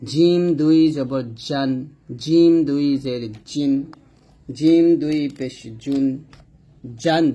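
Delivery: firm recited j in "জিম" and "জান"; strong, firm "জিম". Shown as a demonstration. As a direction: press mid-tongue to palate for a solid "জিম". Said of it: "শক্ত এবং মজবুত আওয়াজে জিম".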